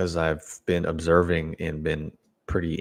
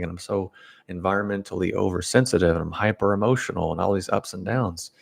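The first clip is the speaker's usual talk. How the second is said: whiny oversensitive client; 3 semitones higher than usual. Retold or imitated. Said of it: "And they're like".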